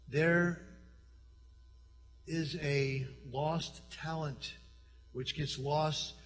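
solemn hush. Real, not acted. Solemn closing line.

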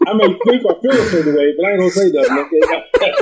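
amused, laughing. Real, not acted. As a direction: laugh as you admit it. Teasing, laughing.

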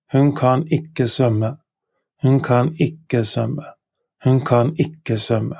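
"Hun kan ikke svømme" said slowly and clearly; Norwegian model sentence. Shown as a demonstration. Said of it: "She cannot swim".

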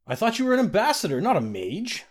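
high, fast, laughing disbelief; teasing a friend who just surprised her, laughing. A narrator's reading. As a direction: toss it off with a delighted laugh. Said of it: "laughed Gyna".

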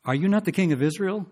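high, loud mocking queen; scornful wife. Wife scolding her pouting king husband, high and loud. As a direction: needle the sulking king. Jezebel taunting the sulking king.

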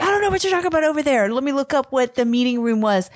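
a touch of a mock-angry coworker, rattled off quickly; retold annoyance. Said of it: "And he got so mad".

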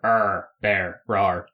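low playful growl, arr and rawr; bear voice. Pretend. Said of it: "do you like my bear impression there".

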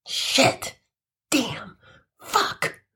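soft, breathy swearing under the breath; whispered curses. Acted. Caught schoolboy whispering curses as he is exposed. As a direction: curse quietly to yourself. Narrator's muttered reaction.

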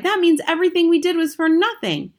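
put-on high, loud despairing boy; loud high protest; cried out. A narrator's reading. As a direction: plead it, all that work wasted. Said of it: "I cried".

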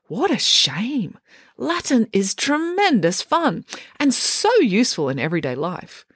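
high and slow, gushing; mock-wistful sigh over Latin; slow, rapturous about Latin. A narrator's reading. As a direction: relish every word like a zealot. Mum on Latin.

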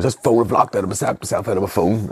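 hammed-up near-tears complaint; mock tearful customer. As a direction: imitate a customer on the verge of tears. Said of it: "his bottom lip started to quiver".

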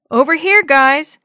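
high, loud call from off to the side; a high, loud call from somewhere out of sight. A narrator's reading. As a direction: call them over from a distance. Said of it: "Dee Dee's muffled voice".

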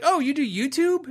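high-pitched excited question, imitating the barista; light up with impressed surprise; mimicked thrilled reaction, pitched well up. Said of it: "And she was so excited".

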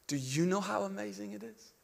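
soft, hushed appeal; whispered question. Retold or imitated. Preacher passing the question on this morning, hushed. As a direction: put it quietly to each listener. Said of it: "the Spirit whispered in my heart".

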